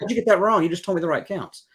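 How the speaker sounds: amused teacher asking how that went wrong; laughing disbelief. Retold or imitated. Teacher baffled by student's wrong rhythm.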